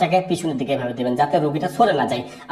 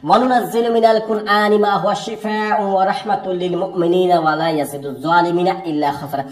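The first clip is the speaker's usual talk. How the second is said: Quran recitation. Shown as a demonstration. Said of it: "আবার কিন্তু কোরআনের ওই আয়াতটি পড়বেন".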